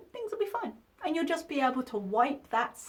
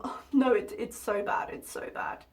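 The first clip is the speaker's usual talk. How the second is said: mocking fake show. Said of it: "putting on the fake show of".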